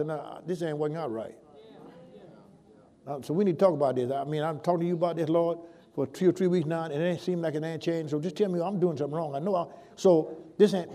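soft, frank talk to God; honest prayer. Shown as a demonstration. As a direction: confide the complaint quietly, like a friend. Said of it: "you just need to talk to God".

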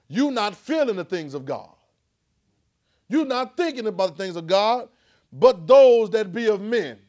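slow, rising to a loud high finish; building preaching. Real, not acted. Preacher pressing the congregation, building to a loud cry.

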